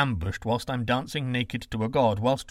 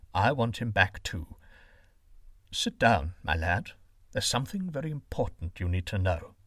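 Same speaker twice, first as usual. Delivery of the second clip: a hint of a gentle father; 5 semitones lower than usual. Father calms his raging son.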